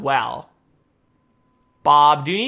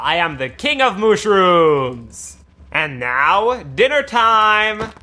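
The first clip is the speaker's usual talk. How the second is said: mad scientist; slower than usual. Acted. Villain feeding villagers.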